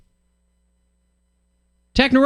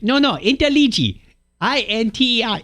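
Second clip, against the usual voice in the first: higher, insistent Sicilian correction; 8 semitones higher than usual. Retold or imitated. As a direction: correct him again, Sicilian and impatient. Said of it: "Sicilian guy".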